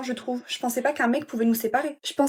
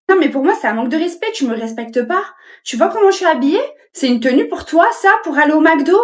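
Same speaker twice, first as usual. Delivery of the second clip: put-on higher, louder outraged girlfriend; indignant complaint; 4 semitones higher, 8 dB louder than usual. Girlfriend scolding boyfriend for a fast-food date, indignant. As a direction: protest like a diva insulted.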